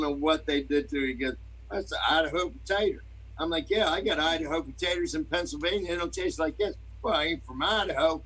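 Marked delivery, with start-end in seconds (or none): 1.7-3.0 put-on higher-pitched, blended Idahoan accent; mock Idahoan accent. Restaurant man praising his potato, mock Idahoan accent. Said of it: "is this a true Idahoan, uh, accent". 3.7-8.2 put-on higher, lightly blended Idaho-Southern accent; a loose mix of rural Idaho accents; mock Idahoan accent. Arguing over Idaho potatoes, mock Idahoan accent. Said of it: "blending a bunch of different accents".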